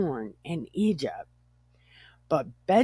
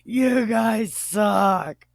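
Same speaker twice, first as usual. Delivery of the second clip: slow, drawn-out jeer; mock insult; 3 semitones higher, slower than usual. Joe jeering at his brothers, drawn-out mock insult. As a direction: repeat the taunt at moderate volume, stretched out. Repeats the insult after laughing.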